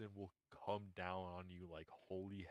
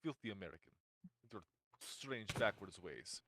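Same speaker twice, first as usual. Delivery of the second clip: put-on Russian accent. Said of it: "Soviet accent".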